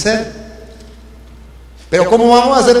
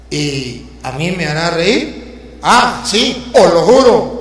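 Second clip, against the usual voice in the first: dramatic poem recital; 3 semitones lower than usual. Acted. Preacher reciting a poem to his congregation, dramatic declamation. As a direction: recite it like a tragic ballad, the patient's lines heavy with despair.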